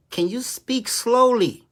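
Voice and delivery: retold plea, stretched out slowly; slow, pleading request. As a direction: ask slowly, voice lifting. Asking a stranger for slower directions.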